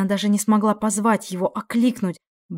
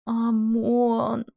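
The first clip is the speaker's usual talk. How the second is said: moan; 3 semitones higher than usual. Acted. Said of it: "простонала она".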